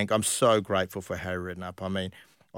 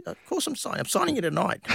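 mock indignant Harry; 11 semitones higher than usual. Harry retorting about signing.

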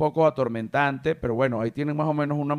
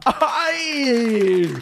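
mock rooster cry; 7 semitones higher, 3 dB louder than usual. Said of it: "y al rato".

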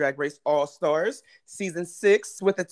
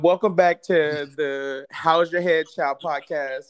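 podcast intro; slower than usual. Acted. Show intro.

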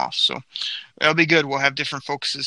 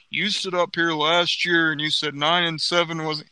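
lightly voiced reporter asking a gotcha question; a hint of a needling beat reporter; Dave Burkett impression; 2 semitones higher than usual. Mock reporter grilling the GM, lightly voiced. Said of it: "this is my Dave Burkett impression".

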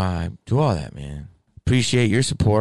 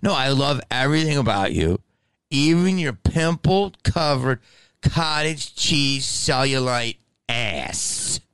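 higher, slow, sugary fake compliment; mock sweet reply; 6 semitones higher, slower than usual. Answering a rude fan with mock sweetness. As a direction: gush it out like a backhanded love note. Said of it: "That's what I wanna say back to people".

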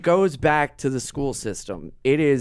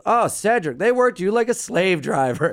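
higher joking mom voice; imitating mom; 7 semitones higher than usual. Mom joking with her son after football. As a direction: tease him like a fond mom. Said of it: "the black mom goes".

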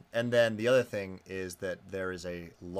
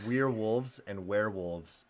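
New Zealand accent; slower than usual. Shown as a demonstration. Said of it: "in a New Zealand accent".

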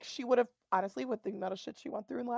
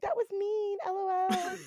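much higher, airy mock scold; mock prim scolding; 9 semitones higher, slower than usual. Mocking Mara's weak scolding, higher flippant tone. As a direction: toss it off lightly with a higher voice. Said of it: "You're just gonna be like".

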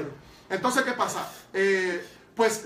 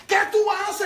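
much higher, louder, exasperated question; mock inner outcry; 12 semitones higher, 6 dB louder than usual. Young man arguing with the Lord inside, loud exasperated cry. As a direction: cry it out in comic disbelief.

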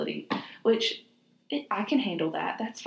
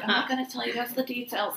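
lightly put-on cool-girl voice, pitched up; a hint of teasing secrecy; mock mysterious cool girl; 5 semitones higher, faster than usual. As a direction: play at being ominously coy. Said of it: "trying to be all ominous and mysterious".

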